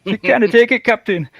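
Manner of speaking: lightly put-on Scottish engineer; Scottish accent. Guest answering the captain gag, light Scottish accent. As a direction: give a playful attempt at a Scottish accent. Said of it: "That's my best Scottish accent".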